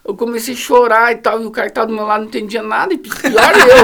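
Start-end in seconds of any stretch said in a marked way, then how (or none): 2.9-3.8 laughing loudly through the words. Real, not acted. Telling friends he understood even less, laughing out loud. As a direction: crack up at yourself. Laughing at his own crying.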